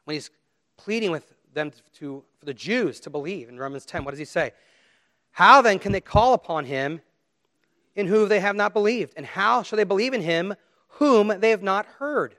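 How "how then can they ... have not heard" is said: loud, raised scripture reading; scripture declamation. Acted. Preacher quoting Paul's questions in Romans, declaiming. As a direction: proclaim the verse forcefully. Reads scripture aloud to congregation.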